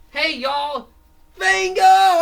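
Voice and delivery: very high, loud self-announcing yell; cartoon hero bellow; hero shout. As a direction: shout your own name to the crowd. Fango announces himself.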